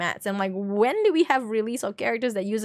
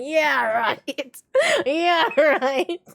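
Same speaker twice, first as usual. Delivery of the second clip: sarcastic eye-roll; 4 semitones higher, much slower than usual. Retold or imitated. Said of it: "I'm just rolling my eyes like".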